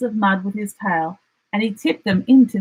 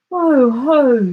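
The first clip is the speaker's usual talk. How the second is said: higher, louder fluttering emu; fluttery emu; 7 semitones higher, 6 dB louder than usual. A narrator's reading. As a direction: flutter the greeting up high. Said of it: "she fluttered".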